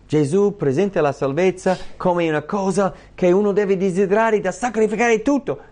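impassioned sermon voice; fervent preaching. Acted. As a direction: drive the point home from the pulpit. Preaching at full force.

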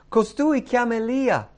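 high, loud call from a bystander; crowd's jeering cry. Acted. Onlookers at the cross hearing Jesus, loud high cry. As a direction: cry it out loudly over a crowd.

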